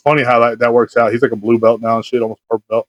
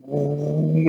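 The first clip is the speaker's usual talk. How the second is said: imitated noise; 9 dB quieter than usual. Storyteller mimicking the crackheads leaving, imitated noise. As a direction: mimic the noise softly, drawn out. Imitates sound as car pulls off.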